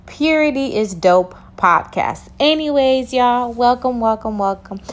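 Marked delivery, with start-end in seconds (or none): 0.0-2.3 slower, clearer. Shown as a demonstration. Host repeats show name for listeners, slower and clearer. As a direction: say "Purity is Dope podcast" slower and clearly, each word spaced. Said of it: "I'ma say that again, just in case I said it too fast".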